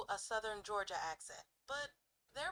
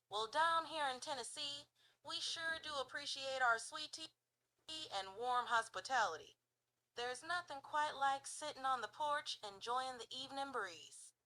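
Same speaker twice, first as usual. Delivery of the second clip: Tennessee accent. Shown as a demonstration. Showing the user an example of a Tennessee accent. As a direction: talk like a folksy Tennessee local. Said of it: "take on the Tennessee accent".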